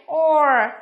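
"Or" isolated, loud and held; vowel demonstration. Shown as a demonstration. Teacher answers which sound three words share, modelling "Or". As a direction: sound out "Or" firmly as one long vowel. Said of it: "đều là âm gì".

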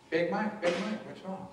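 understated, gentle check-in; calm, tone-setting. Retold or imitated. Movie mother asking Big Mike, calm. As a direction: ask it evenly, no pressure. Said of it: "She set the tone".

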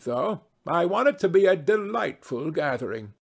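hint of a grand lady making plans; lightly voiced society hostess. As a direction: lightly play a matchmaking hostess.

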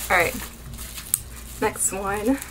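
breathless after excitement; out of breath. Real, not acted. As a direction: talk while catching breath. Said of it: "Whew, I am out of breath".

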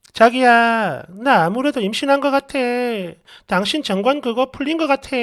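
mildly hesitant, careful wife; careful confession. Acted. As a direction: gently broach delicate news. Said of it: "정말 조심스럽게".

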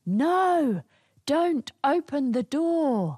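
high, slow call-out; demonstrated shout. Shown as a demonstration. Storyteller showing listeners the other answer, high drawn-out shout.

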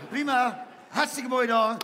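veel hoger en luider, overdreven presentator; hammed-up host. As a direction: speel een overenthousiaste presentator. Quizmaster host voice. (overdreven hoge quizpresentator)

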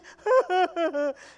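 loud, high, hammed-up wailing sobs; imitated bawling in a run of bursts; mock sobbing. Woman letting it out in church, exaggerated crying. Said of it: "And she's just crying".

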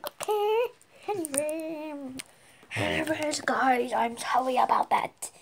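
soft croaky put-on voice; hushed silly croak; funny croaky voice. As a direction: croak it out as a joke voice. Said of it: "This is just one of my funny voices".

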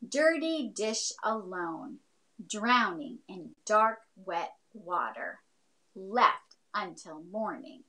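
slow, deliberate recital; poem reading. Shown as a demonstration. Teacher reads her own haiku aloud, slow and deliberate. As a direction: read each line like a poem, slowly. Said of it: "I wrote this one called In the Sink".

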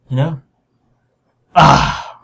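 normal talking voice

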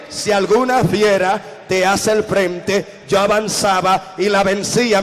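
slow, firm, emphatic second reading; emphatic reread. Retold or imitated. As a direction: read it right this time, proclaiming it. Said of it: "Lee bien".

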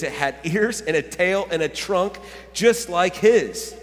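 animated read-aloud, building to the reveal; storybook reading. A narrator's reading. Pastor reads the egg bursting apart, animated storytelling. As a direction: read it to an audience with wonder.

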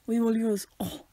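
hammed-up French accent; playful fake French voice; mock French accent. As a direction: object in a put-on French accent. Puts on French after French words.

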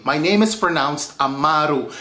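Amaru said a-MA-ru, stress on MA; Amaru stressed on the second A. Shown as a demonstration. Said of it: "put the emphasis on the second A".

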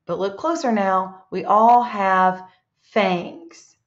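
picture-book read-aloud with a rise before each animal; lilting riddle rhythm with little pauses. Acted. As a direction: read it to a class, drawing out the last line. Reads next riddle aloud.

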